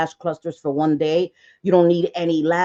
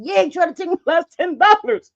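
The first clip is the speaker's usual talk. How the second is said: deadpan insistence; 10 semitones higher, 4 dB louder than usual. Retold or imitated. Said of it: "And I said".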